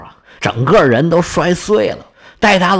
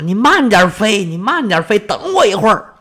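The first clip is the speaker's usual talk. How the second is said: father shouting after his son, higher pitched; a worried father yelling after his son to wait; anxious calling out; 5 semitones higher than usual. Acted. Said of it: "急得在后边喊".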